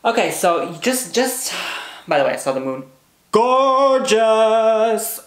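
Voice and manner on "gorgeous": loud, high burst of awe; rapturous gasped praise; awed exclamation. Real, not acted. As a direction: exclaim at the moon's beauty. Remembering the blood moon.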